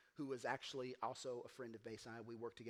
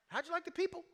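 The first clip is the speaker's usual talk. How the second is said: high, loud eager questioning; mock eager dinner host; eager church guys; 10 dB louder, faster than usual. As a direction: pepper him with keen questions.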